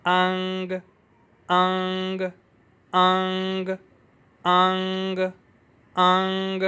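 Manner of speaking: short vowel in انگ, held nasal ng, faint g; barely-heard final g. Shown as a demonstration. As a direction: say انگ with a long ng and a light g at the end. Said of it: "جی اتنا کم پڑھا جاتا ہے". (انگ کے آخر میں بہت ہلکا گاف)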